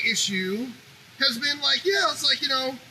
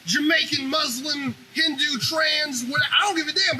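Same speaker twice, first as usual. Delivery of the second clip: heated rant; 5 semitones higher, slower than usual. Real, not acted. Heated rant listing groups.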